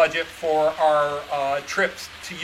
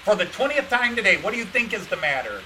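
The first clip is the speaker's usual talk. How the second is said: exasperated retort; 5 semitones higher than usual. Retold or imitated. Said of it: "And I'm like".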